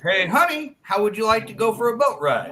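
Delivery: fluent, flirty come-on; smooth pickup line. Acted. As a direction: call out to a honey with easy charm. Confident model of the pickup line.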